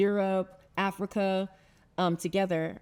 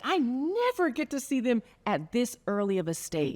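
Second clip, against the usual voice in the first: higher-pitched retold delight; happy surgeon; 5 semitones higher than usual. Surgeon glad to catch cancer early, imitated happy amazement. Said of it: "she was happy too".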